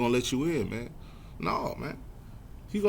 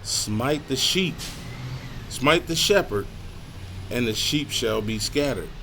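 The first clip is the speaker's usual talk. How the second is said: slow, raised, emphatic verse with pauses; 3 semitones higher, slower than usual. Shown as a demonstration. Preacher repeating the verse on the shepherd, slowed and emphatic. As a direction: drive each phrase home, pausing between them. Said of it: "Slow that one down".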